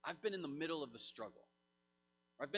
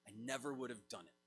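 softer, quicker echo of the line; quiet emphatic repeat; 7 semitones lower, 7 dB quieter, faster than usual. Shown as a demonstration. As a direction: let the words sink in, said low and fast. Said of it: "I want those words to ring in your ears".

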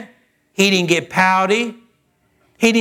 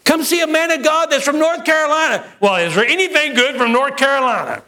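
mock pouty; 6 semitones higher than usual. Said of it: "we'd have got all pouty".

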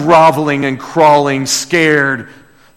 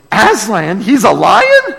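rising, higher startled question; shocked disbelief; 6 semitones higher, 4 dB louder than usual. Acted. Susie hears the guide is a lion, shocked. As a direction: Susie gasping at the news. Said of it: "she's kinda shocked".

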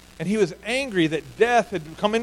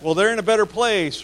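mock platitude; 3 semitones higher, 4 dB louder than usual. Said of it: "some spiritual platitude like".

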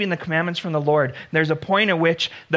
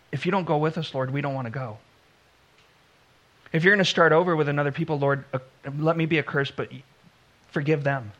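softer, hushed plea of a humble servant; pleading Moses; 4 semitones lower, 4 dB quieter, faster than usual. Retold or imitated. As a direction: beg quietly for mercy on them.

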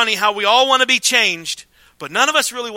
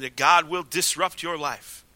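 quiet slow conviction; 5 semitones lower, 6 dB quieter than usual. Shown as a demonstration. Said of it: "I'm telling you".

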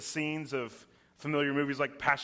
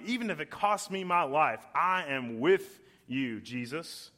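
passionate Peter pledging. Retold or imitated. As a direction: plead your loyalty to Jesus, heart on sleeve.

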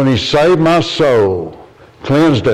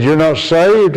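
higher, astonished query; surprised question; 6 semitones higher, slower than usual. Retold or imitated. Preacher asks the boy if he is saved, surprised and higher. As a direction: ask it in disbelief.

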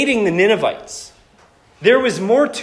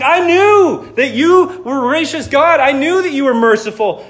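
accusing Jonah. Retold or imitated. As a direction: throw God's kindness back at him as a complaint. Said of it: "he's like".

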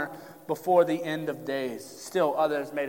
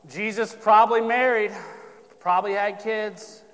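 mocking the skeptic; 4 semitones higher, 7 dB louder than usual. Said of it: "come at you with a source".

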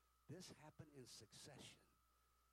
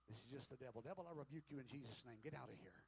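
firm, louder command to cast out the devil; stern rebuke; 5 dB louder than usual. Retold or imitated. Husband ordering the devil out of the bedroom, stern rebuke. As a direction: rebuke with raised voice and authority.

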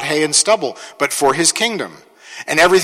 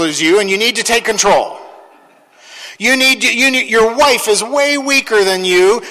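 mock bossy preaching, higher pitch; sarcastic lecture, a touch higher; 4 semitones higher than usual. Mocking controlling believers.

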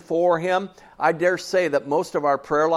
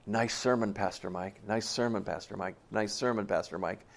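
rote churchgoer praise; 6 semitones lower, 10 dB quieter than usual. Retold or imitated. Congregants' rote handshake praise.

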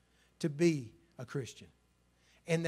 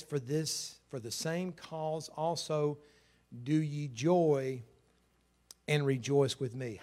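scripture reading; slower than usual. Acted. Reads scripture slowly.

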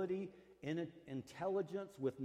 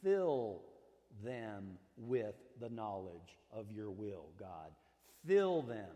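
fervent petition; 4 semitones lower, 3 dB louder, slower than usual. Retold or imitated. Paul praying to God for the church, fervent petition. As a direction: punch each "Fill", then ease down slowly. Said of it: "So he's saying".

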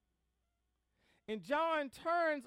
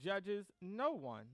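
measured Bible reading with deliberate pauses; scripture reading; 3 semitones lower than usual. Acted. Preacher reads the Gospel to the congregation, measured scripture reading. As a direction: read the verse out, phrase by phrase.

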